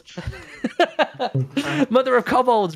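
cracking up while reading a name; laughing through the words. Real, not acted. Reading out a silly donor name.

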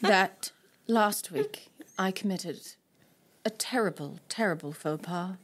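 a hammed-up politician, addressing the public about a shameful blunder; mock politician apology. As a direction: deliver a grave public apology like a disgraced politician. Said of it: "Can I do it like a politician?".

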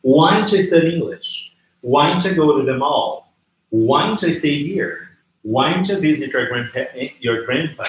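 every "Why don't you" linked as "why-ncha"; pronúncia natural reduzida. Shown as a demonstration. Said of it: "Pronúncia natural do inglês". ("Why don't you" emendado como "uainchã" em cada frase)

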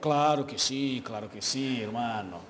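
casual Spanish phrases in a light Argentine lilt; lightly put-on Argentine Spanish, low and relaxed. Shown as a demonstration. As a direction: show off a bit of Argentine Spanish. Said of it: "Tem o traquejo pra falar espanhol?".

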